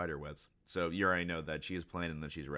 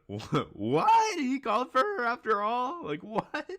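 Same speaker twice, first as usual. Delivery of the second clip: very high, loud disbelief; shocked outburst; 9 dB louder, much slower than usual. Acted. Onlookers hear Sanji called for Robin after all, shocked shrieking. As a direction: shriek it in stunned, hammed-up surprise. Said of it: "They're so surprised".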